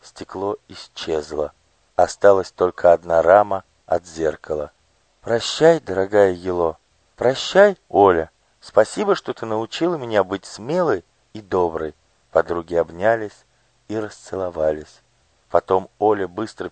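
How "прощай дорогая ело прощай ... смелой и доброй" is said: put-on tender girl farewell. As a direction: bid farewell gently as a girl. Farewell between the girls.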